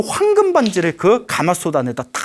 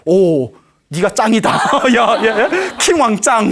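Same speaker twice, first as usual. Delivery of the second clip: cheering ministers; 3 semitones higher, slower than usual. Acted. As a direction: cheer him on like giddy fans. Ministers cheering the wise king.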